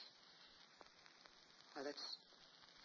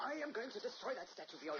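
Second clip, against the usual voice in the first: loud, high, raging threat; an enraged man shouting that he'll destroy the statue; furious shout; 13 semitones higher, 5 dB louder than usual. Acted. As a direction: bellow it at her in fury.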